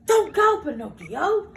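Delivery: loud, high urgent warning. Acted. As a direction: stop him before he goes. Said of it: "warned Cricket".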